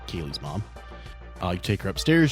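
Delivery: usual speaking voice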